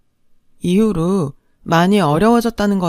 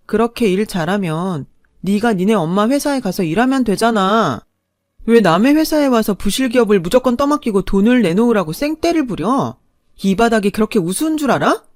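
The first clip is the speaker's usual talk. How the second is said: angry retort; 2 semitones higher than usual. Acted. Wife snapping back at her ex-husband, angry. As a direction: hit back hard at him.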